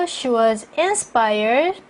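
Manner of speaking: slow rise on "inspired", then a break; measured reading, stopping after "inspired"; phrased with pause. Shown as a demonstration. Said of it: "전치사구 앞에서 쉬고요". ("inspired" 뒤에서 쉬며 천천히)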